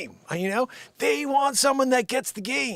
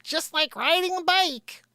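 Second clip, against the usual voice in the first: slow, higher mock-wise voice; slowed, higher singsong cliché; put-on voice; 8 semitones higher, slower than usual. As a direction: say it like a wise old saying.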